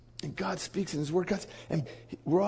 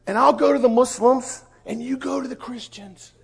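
eager proclamation; 10 semitones higher, 8 dB louder than usual. Retold or imitated. Convert assigning the missions.

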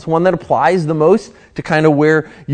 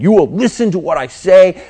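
drill sergeant. Retold or imitated. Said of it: "kind of like a drill sergeant".

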